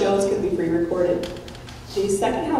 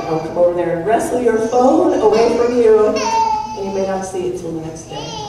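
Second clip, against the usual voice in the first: laughing mock threat; 3 semitones higher, 4 dB louder than usual. Joking threat about phones.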